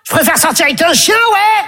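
mock scornful girl. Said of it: "Elle dit".

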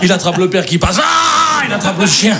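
shouting out each victim; excited shouting. Retold or imitated. Telling friends the chaos, shouting each victim. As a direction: yell it with glee.

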